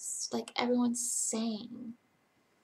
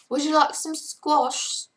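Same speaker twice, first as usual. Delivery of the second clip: higher, louder, slow British accent; 6 semitones higher, 6 dB louder, slower than usual. Shown as a demonstration. Streamer offers squash in an accent attempt, British accent. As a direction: attempt Australian but land on British. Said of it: "no, that's a British accent".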